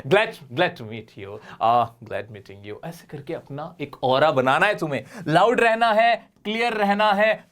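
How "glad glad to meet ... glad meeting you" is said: slow confident demo. Shown as a demonstration. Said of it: "बोल डालो".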